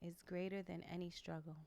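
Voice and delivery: whispered, reverent start; whispering. Acted. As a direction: breathe it like a mantra. Reading the affirmation.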